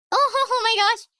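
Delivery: high, laughing exclamation; real laughing. Real, not acted. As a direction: burst out laughing through the words. Bursts out laughing at the comic.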